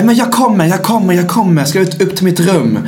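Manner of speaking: hurried excuse. Retold or imitated. Acts drag queen's hurried excuse.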